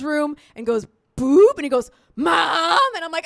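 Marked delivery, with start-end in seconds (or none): 2.2-2.8 loud, higher yell for a parent; mock kid's holler; imitated son calling. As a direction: call out from another room. Son calls from his room.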